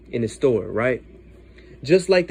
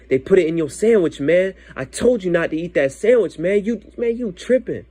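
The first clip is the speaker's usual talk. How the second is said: higher-pitched mild telling-off; retold scolding; 4 semitones higher than usual. His spirit telling him off over the sandwich, mildly scolding. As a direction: scold yourself in a raised, exasperated retelling.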